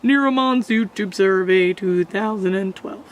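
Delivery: flat processed robot voice. Acted. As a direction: read it like a machine. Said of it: "I'm gonna put a robot voice on that".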